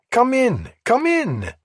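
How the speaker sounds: put-on high, loud bartender with a French accent. A narrator's reading. Bartender greeting a regular, French accent. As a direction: call out his name the French way. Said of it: "spoke with a French accent".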